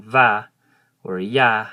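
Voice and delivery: Va and Ya with an open A as in apple; Hmong A vowel. Shown as a demonstration. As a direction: say Va and Ya with a clear open A. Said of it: "the last names in Hmong".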